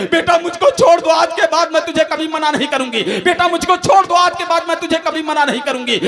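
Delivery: pleading mother. Retold or imitated. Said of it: "मेरी माँ चीखती रही".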